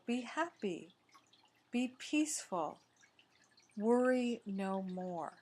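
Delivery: measured divine reassurance with spaced-out phrases; lightly voiced God, giving a calm blessing; God's representative. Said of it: "representing God, says".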